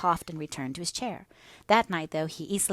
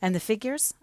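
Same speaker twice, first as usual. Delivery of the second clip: higher, rising prompt; encouraging, lightly raised voice; 5 semitones higher than usual. A narrator's reading. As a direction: coax a learner on with a lifted question. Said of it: "I cried encouragingly".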